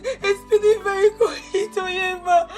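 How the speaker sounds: crying quietly as she tells of the accident; choked, soft sobbing plea; tearful pleading. Acted. Niece begs her uncle for help through tears. Begging uncle about dying brother.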